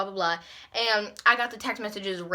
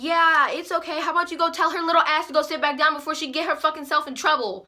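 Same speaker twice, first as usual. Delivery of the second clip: higher, quickening dismissive comeback; sassy retort; 6 semitones higher, 3 dB louder, faster than usual. Retold or imitated. Girl answering the lunch lady mid-argument, sassy retort. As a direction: brush her off, then rattle out the threat.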